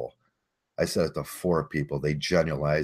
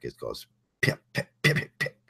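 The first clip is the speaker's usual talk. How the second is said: mimicked crackle; 4 semitones lower than usual. Shown as a demonstration. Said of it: "the second crack is a harsher crack".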